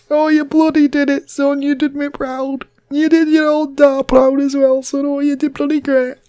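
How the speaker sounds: high, loud and slow praise; booming proud dad. Retold or imitated. Dad praising his son, high and loud. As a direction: lay it on thick like a proud old man.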